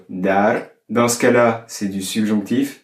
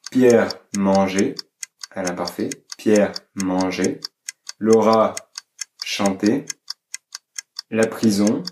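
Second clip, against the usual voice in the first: dictation. Shown as a demonstration. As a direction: read each item deliberately, leaving time to write. Dictates words for exercise.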